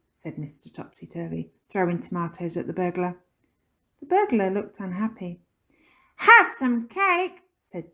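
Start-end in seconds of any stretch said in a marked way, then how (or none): 6.2-7.4 put-on high, drawn-out child's yell; loud offer. A narrator's reading. Jinx hurling leftovers at burglar, high loud yell. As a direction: yell it slowly, each word stretched.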